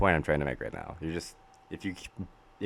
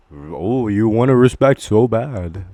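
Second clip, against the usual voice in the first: angry; 3 semitones higher, 12 dB louder, slower than usual. Real, not acted. Angry rant at critics.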